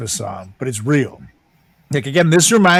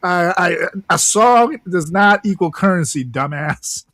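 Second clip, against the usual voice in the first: exasperated clerk; 4 semitones higher than usual. Pretend. Clerk telling a singing kid a song isn't money, exasperated. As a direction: lay down the payment rules, fed up.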